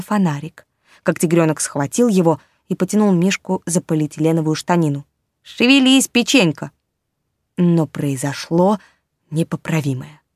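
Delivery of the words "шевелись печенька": urgent shout. Acted. Kitten hurries the bear.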